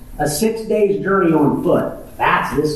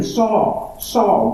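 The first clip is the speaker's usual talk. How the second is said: "Saul, Saul" as an earnest plea, the first "Saul" higher; heartfelt calling; 5 semitones higher than usual. Shown as a demonstration. Jesus pleading with Saul, calling "Saul, Saul" heartfelt. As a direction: call "Saul, Saul" with longing, not as a flat read. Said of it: "Don't read that as Saul, Saul".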